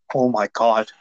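hammed-up alarmed pundit, slow and drawn out; mock outrage. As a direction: gasp and wail it in mock horror, pitch climbing high. Mocking alt-right media outcry.

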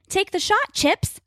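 high, urgent shout; hollering. A narrator's reading. Grace hollers at Chips to fire, high and urgent. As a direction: yell the order. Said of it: "Grace hollers".

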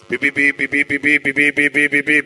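"פי" repeated evenly on one note; comic stammer, a steady string of "פי"; stutter on P. Acted. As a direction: get stuck firing off "פי" without end. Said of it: "יש לי בעיה עם אות פ'".

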